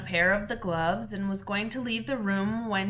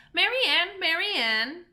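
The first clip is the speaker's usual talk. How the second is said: calling out; 9 semitones higher, 3 dB louder than usual. Acted. Rabbit calls from outside.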